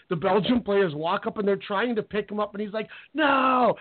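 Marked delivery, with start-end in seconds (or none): 3.1-3.7 imitating a player's high-pitched refusal; drawn-out, high cry of protest, half-yelled; mock scream. Fallen player refusing to be picked up, mock screaming. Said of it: "And he's screaming".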